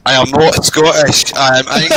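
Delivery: slow, deliberate put-on foreign accent; Lewandowski impression. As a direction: spell it out slowly in a mock accent. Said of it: "do the best impression of Lewandowski".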